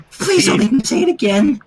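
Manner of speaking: high pleading little voice; quietly. A narrator's reading. Fluttershy begging the others, high and meek. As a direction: plead softly so nobody hears. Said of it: "Fluttershy said quietly".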